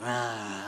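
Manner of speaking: low, soft sneering "ah"; imitated sneer. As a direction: imitate a passer-by's wordless sneer. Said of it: "just kinda sneered at me".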